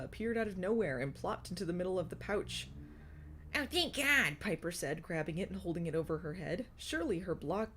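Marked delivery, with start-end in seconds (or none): 3.5-4.4 put-on higher, relieved cry from a girl in a story; relieved exclamation. A narrator's reading. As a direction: let out a mild burst of relief.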